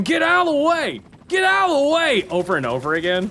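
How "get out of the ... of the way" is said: high, loud mock scream of warning; imitated screaming. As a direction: scream it like a panicked game character. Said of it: "He was too busy screaming".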